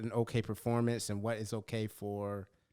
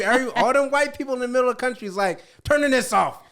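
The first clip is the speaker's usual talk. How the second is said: put-on country accent; 10 semitones higher, 9 dB louder than usual. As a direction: imitate rural white America. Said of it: "Do your country accent".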